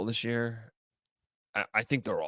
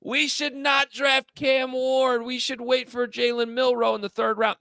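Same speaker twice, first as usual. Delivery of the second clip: loud, slow sports-radio blowhard; blowhard radio host; 13 semitones higher, 3 dB louder, slower than usual. Pretend. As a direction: bellow it like a talk-radio loudmouth. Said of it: "If I was on Cleveland radio right now saying".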